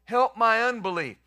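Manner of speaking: loud, slow, pleading cry of a desperate father; a desperate father cries out to Jesus, loud and pleading. Retold or imitated. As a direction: cry it out like a father begging through tears. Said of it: "cried out and said with tears".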